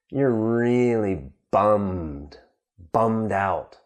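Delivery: slow, drawn-out acted dejection; bummed out. Teacher explaining slang for sad and depressed, mildly bummed. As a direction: drag it out, mildly downcast. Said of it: "when you're sad and depressed".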